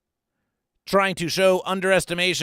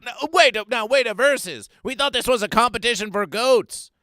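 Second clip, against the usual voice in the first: mock outrage; 5 semitones higher than usual. Real, not acted. Host challenging the goats, hammed-up outraged rant. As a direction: demand answers from the goats, hammed-up indignation. Ranting at goats about giraffes.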